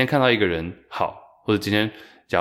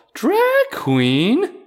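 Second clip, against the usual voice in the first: mock very high, loud, affronted disbelief; 5 dB louder than usual. Retelling a guest's reaction on a talk show, imitating an offended questioning tone. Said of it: "他那个语气是有点像是，“你怎么用这个词称呼我？”".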